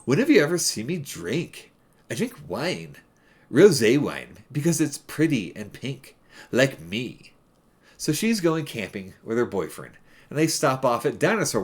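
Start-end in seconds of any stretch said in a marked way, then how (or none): 0.1-7.3 put-on lightly done Valley Girl accent; a hint of Valley Girl accent. Shown as a demonstration. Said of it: "convey the Valley Girl accent she does".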